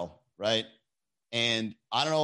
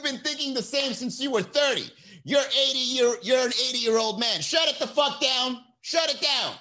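mock shout; 9 semitones higher than usual. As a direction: yell it like a fed-up boss. Continues the shouting bit.

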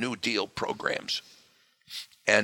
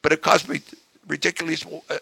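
loud, higher, complaining; aggrieved voter; 8 semitones higher, 7 dB louder than usual. Retold or imitated. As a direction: voice an angry taxpayer. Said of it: "The other guy says".

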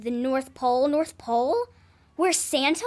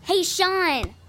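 louder second try for attention; insistent call; 5 dB louder than usual. Acted. Girl calls her ignored babysitter, insistent. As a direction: call his name more firmly.

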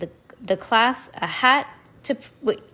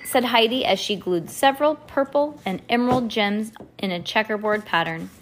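ordinary delivery, nothing marked

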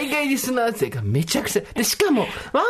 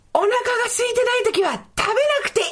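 very high-pitched mock contest yell; big-voice shout. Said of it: "今大きな声で叫びたいのは". (大声コンテスト風に高い声で叫ぶ)

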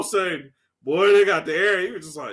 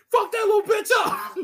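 high, loud hammed-up yell; mock yell; 12 semitones higher, 4 dB louder than usual. Retelling the crowd beating the kid, high mock yell. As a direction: bark it like an angry mob. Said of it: "they were just like".

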